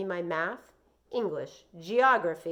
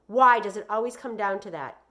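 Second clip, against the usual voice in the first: mom; 3 semitones higher, 10 dB louder than usual. Acted. Mom argues with Joey.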